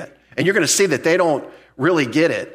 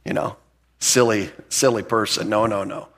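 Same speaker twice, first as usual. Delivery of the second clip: mock dismissive laugh; 3 semitones lower than usual. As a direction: brush it off like a smug skeptic. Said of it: "they're like".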